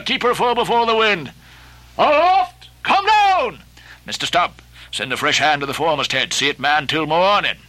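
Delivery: commanding Ahab. Acted. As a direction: command the crew, calling up to the helm and masts. Ahab gives night orders.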